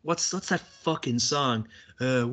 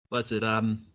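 flustered; 5 semitones lower, 5 dB quieter, slower than usual. Real, not acted. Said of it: "Great flustering there".

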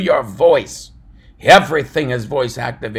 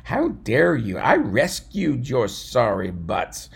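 mock ridicule. David scolding his six hundred men, mildly hammed. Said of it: "begin to ridicule them and saying".

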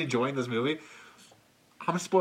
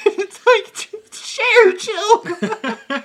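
high squealing laugh through words; 7 dB louder, much slower than usual. Real, not acted. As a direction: crack up mid-sentence. Laughing comment.

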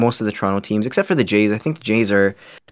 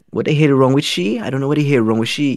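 lilting Trinidadian accent, pitched up; imitated Trinidadian banter, raised pitch; 5 semitones higher than usual. Shown as a demonstration. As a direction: put on a Trinidadian friend's way of talking. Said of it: "with my Trinidadian friend, I'd be like".

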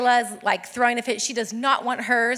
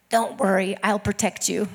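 lower, hushed little protector; imitated protective toddler; 4 semitones lower than usual. Little sister steps in front of her sister, protective. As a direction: promise protection, low and earnest, laugh creeping in. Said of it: "and she said".

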